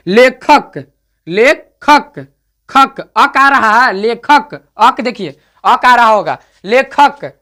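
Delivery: लेखक said slowly, leaning on the ending अक; stressed suffix demo. Shown as a demonstration. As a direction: drag out लेखक to make अक heard. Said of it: "जैसे बोल के देखिए".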